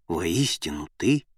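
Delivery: low, slow solemn declaration; solemn reverence. A narrator's reading. Disciples bowing before Jesus, solemn and reverent. Disciples bow and confess their faith.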